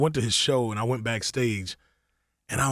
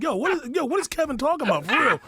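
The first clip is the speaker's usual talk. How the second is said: high, urgent asking around; imitating his own confusion; confused asking; 14 semitones higher than usual. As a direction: pitch up, bewildered. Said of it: "I'm like".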